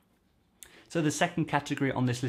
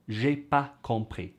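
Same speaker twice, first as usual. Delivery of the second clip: slow careful model. Shown as a demonstration. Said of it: "you'll often hear people say".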